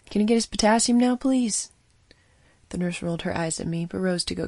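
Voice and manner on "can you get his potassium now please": impatient urging. Acted. Doctor pushing nurse impatiently.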